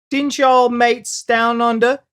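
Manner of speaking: a loose, hammed-up Australian accent; a hint of a put-on Australian accent; mock Australian accent. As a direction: play a jokey Aussie mate. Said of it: "Whatever kind of accent that was".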